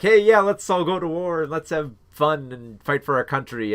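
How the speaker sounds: mock giddy enthusiasm. Imagined recruits rallying each other to war, mock giddy. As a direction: put on eager enthusiasm for enlisting. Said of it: "They're all giddy and excited".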